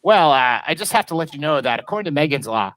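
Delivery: lightly voiced sleazy cartoon neighbour; hint of a lecher making his disclosure; Quagmire. Neighbour answering a babysitting request, lightly voiced cartoon lecher. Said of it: "he's like".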